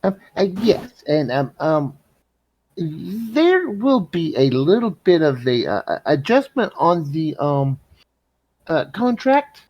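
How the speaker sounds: hesitant negotiating. Acted. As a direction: stall awkwardly while breaking news to the merchant. Player voices hesitant bargaining with seller.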